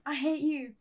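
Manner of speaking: high-pitched, restrained mock yell; mock shouting. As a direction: play-act a shouted outburst without much volume. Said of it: "We start shouting".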